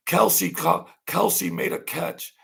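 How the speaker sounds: high, excited announcer voice, mocking; mock sportscaster, high and punchy; mock sportscaster call. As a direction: ham up a TV play-by-play call. Mocking TV coverage of Kelsey.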